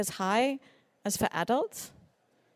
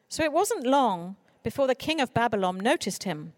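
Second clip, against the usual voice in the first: gentle storybook reading voice; reading to children. Acted. Speaker reading Daniel story to an audience, in storybook style. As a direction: read it as to six-year-olds.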